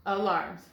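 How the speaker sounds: "alarms" as uh-LARMS with a reduced first A; schwa alarms. Shown as a demonstration. Teacher repeating the schwa reading of "alarms". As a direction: lightly say uh-LARMS. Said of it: "make the schwa sound".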